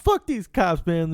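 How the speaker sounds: high-pitched imitation of an angry protester; mock protester. Acting out imagined protester.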